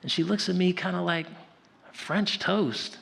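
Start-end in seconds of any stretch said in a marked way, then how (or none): 1.9-3.0 high-pitched indignant questioning; mock incredulous grandmother. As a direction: imitate an affronted grandmother, pausing before the challenge. Acts out grandmother's offended disbelief.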